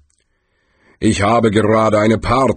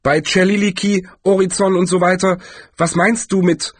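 higher-pitched, lightly voiced wizard, questioning; Galder, puzzled; 11 semitones higher than usual. A narrator's reading. Galder demands an explanation from Death, puzzled. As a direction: rattle off the formula, then ask.

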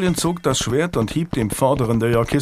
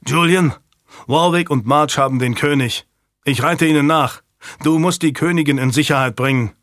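loud, urgent rider's call; 3 semitones higher, 3 dB louder than usual. Acted. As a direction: shout the news in a hurry. Somerset gallops up with orders.

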